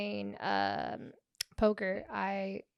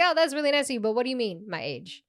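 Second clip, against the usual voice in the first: sarcastic offense; 3 semitones higher, faster than usual. Retold or imitated. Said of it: "I was like".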